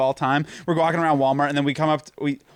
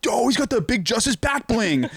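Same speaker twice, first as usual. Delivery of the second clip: high, laughing meme voice; laughing meme quote; 8 semitones higher than usual. Retold or imitated. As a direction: quote it while cracking up. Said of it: "they say".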